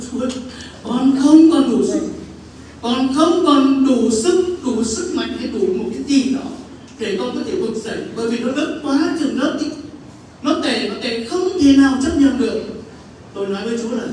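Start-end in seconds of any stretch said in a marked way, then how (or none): 0.1-0.3 desperate cry to God. Retold or imitated. 0.8-2.1 anguished cry. Retold or imitated. 2.8-4.6 slow anguished cry. Retold or imitated. 4.6-12.6 desperate cry to God. Retold or imitated.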